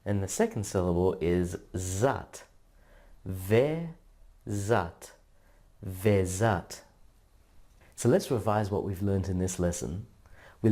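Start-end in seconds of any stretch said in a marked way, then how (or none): 3.2-5.1 Da and zer apart with a pause, Da pitched up; split into syllables. Shown as a demonstration. Teacher sounding out Dazer syllable by syllable. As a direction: sound out each half. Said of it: "The first syllable is ve".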